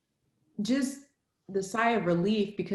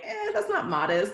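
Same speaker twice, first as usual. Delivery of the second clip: mock prim voice; 10 semitones higher than usual. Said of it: "we're like".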